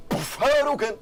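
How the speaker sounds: loud, high, drawn-out battle cry; big hammed-up finishing-move yell; shouted attack cry. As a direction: shout it like a video game special move. Game master acts out special punch.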